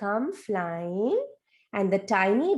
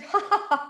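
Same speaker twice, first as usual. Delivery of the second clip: mock laugh; 9 semitones higher than usual. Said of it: "Papa laughed and said".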